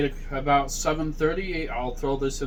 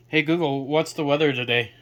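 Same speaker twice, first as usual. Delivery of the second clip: raised voice for a smart speaker; talking to voice assistant; 4 dB louder than usual. Real, not acted. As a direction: call out clearly to the device.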